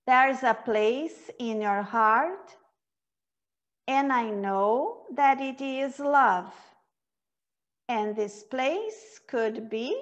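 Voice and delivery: slow, measured recital with clear pauses; very slow reading. Shown as a demonstration. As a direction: take each line slowly for learners to join in. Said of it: "A gente vai ler bem devagar".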